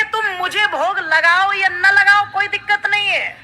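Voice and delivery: high, insistent refrain in the goddess's words; voiced mother goddess. Preacher speaking as the goddess to devotees, high insistent voice. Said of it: "माँ तो यही कहती है".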